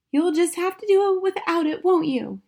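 high, loud wifely retort; unsympathetic wife. A narrator's reading. Wife to husband asking about his shower, unsympathetic.

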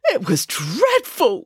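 a slow, mild wail. Acted. Tired bear home from the film set, mild slow wail. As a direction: draw the words out in bear misery. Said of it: "wailed Boris".

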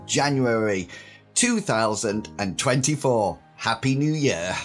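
husky, slightly hoarse voice from a sore throat. Real, not acted. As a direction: speak with a husky, recovering throat. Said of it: "if I sound a little bit husky".

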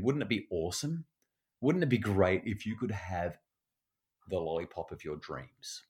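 soft, fading wistful question; dreamy wishing. Shown as a demonstration. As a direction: lull the child into the daydream. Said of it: "we might say".

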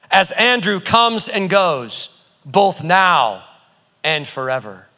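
slow, solemn proclamation over the listener; slow decree. Acted. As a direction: speak blessing slowly over each name. Decrees Psalm with listeners' names.

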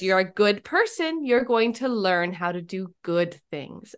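a hint of a calm, kind dad; reassuring father. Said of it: "my husband just looks".

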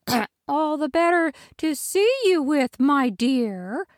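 high, put-on granny voice after a throat clear; flustered fake granny covering up; wolf's Granny voice. Wolf to Little Red, flustered high granny voice.

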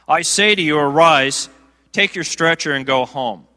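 loud, firm command to rise; commanding Jesus. Retold or imitated. Preacher voicing Jesus healing the paralytic, loud command. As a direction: call him up off the stretcher.

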